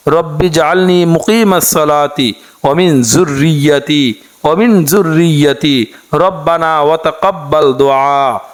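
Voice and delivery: slow, measured Arabic prayer chant; dua recitation. Acted. Teacher reciting the morning dua to listeners, slow chant. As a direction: draw each phrase out like a prayer.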